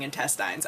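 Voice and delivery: intestines ending in "tines", like vines; long "eye" in the last syllable of intestines; rural pronunciation. Shown as a demonstration. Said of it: "the person who was saying".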